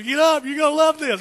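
egging her on with glee; excited teasing. Retold or imitated. Laughing at scared wife in cinema.

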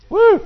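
high, loud joyful woo; excited whoop. Real, not acted. Preacher whoops at the congregation, loud and excited. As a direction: let out a whooping cry of joy. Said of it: "thank you all for getting all excited".

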